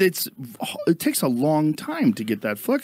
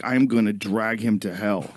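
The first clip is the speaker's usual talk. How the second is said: mild mock fury; 5 semitones lower, slower than usual. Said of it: "fury inside me".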